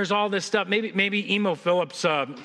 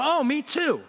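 higher, hammed-up happy discovery; delighted agreement; 8 semitones higher, slower than usual. Bridge stranger finds a fellow Christian, mock delighted. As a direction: play pleased surprise at common ground. Joke character delighted at common ground.

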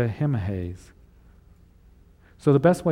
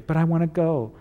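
higher-pitched insistent plea; mock pleading protest; 5 semitones higher than usual. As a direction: lightly act a child-like protest. Acted protest at being refused.

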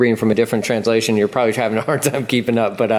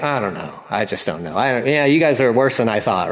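deflated bad coach; 3 semitones lower than usual. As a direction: sigh it out like a coach who's given up. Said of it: "The bad coach is like".

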